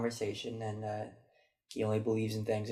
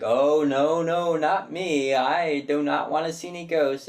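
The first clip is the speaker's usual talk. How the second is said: louder, higher mock protest, drawn out on "not me"; mock fearful denial; 5 semitones higher, 7 dB louder, slower than usual. Imitating the lady denying she wants any ghosts, mock fearful. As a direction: ham up a nervous lady brushing off ghosts. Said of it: "like she's Whoopi Goldberg in Ghost".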